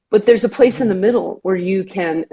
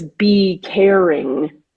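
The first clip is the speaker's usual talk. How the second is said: channeled voice; 3 semitones lower than usual. Retold or imitated. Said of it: "it says".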